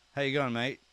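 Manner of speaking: "How you going, mate?" rattled off fast, words run together; as fast as possible. Shown as a demonstration. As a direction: blurt the Aussie greeting in one quick breath. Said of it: "say it as fast as you can".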